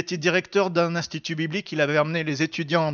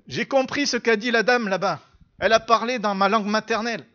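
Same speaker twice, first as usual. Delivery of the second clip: raised, eager retelling; enthusiastic student; 4 semitones higher, 4 dB louder than usual. Retold or imitated. Student telling the pastor he understood the lady, enthusiastic. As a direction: report it with lifted pitch and excitement. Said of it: "il était tout enthousiaste".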